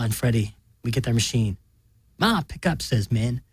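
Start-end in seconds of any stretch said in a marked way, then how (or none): 2.2-2.8 higher urgent call. A narrator's reading. Min calling Ma on the answering machine. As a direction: plead into the phone.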